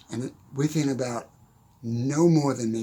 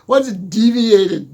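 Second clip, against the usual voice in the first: put-on baffled teen; 5 semitones higher, 10 dB louder, slower than usual. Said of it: "I'm like all of nineteen".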